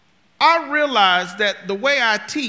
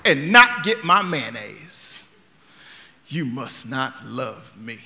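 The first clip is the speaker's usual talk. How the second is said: slow, wounded grumble; hurt accusation; 6 semitones lower, 4 dB louder, slower than usual. Retold or imitated. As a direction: accuse her like a sulking husband. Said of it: "but I was yelling".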